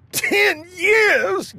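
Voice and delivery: very high disbelieving cry; can't believe the news; aghast. Acted. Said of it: "gasped the king".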